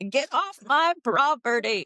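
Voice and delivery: put-on high, shaky grumpy old woman; a quavering granny yelling; trembling old lady voice. Shown as a demonstration. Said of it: "you have the tremble voice".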